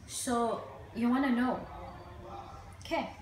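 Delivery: halting grief monologue, long pauses; dramatic monologue. Acted. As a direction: play a bereaved child recalling the funeral, haltingly.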